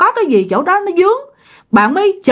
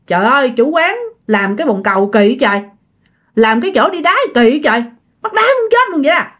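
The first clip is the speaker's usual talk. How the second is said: annoyed grumbling. Acted. Customer cursing the toilet maker while desperate to pee, annoyed grumbling. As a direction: grumble aloud, getting more worked up. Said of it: "Kỳ này bạn bực rồi nha".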